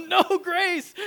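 put-on high, very loud childish wail; little girl's protest. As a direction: protest like a stubborn toddler. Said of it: "She's going".

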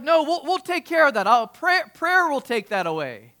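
put-on loud African-accented pastor, starting high and settling; bad African accent. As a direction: imitate an African pastor's confident reply, loudly. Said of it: "that's my bad, uh, African accent".

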